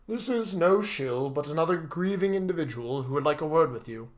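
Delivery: a touch of firm butler; correcting butler. Acted. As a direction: correct the young master politely.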